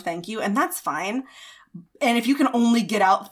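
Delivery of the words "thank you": "thank you" softer and lower, barely out; a small shy "thank you". Shown as a demonstration. Someone new to compliments, small shy thank you. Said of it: "you might not have a lot to say".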